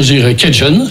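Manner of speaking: Cajun dit kɛʒɔn pour faire plaisir; Cajun à l'anglaise. Shown as a demonstration. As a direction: prononcer Cajun comme kɛʒɔn, à l'américaine. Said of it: "pour te faire plaisir". (Cajun à l'anglaise, pour faire plaisir à l'ami)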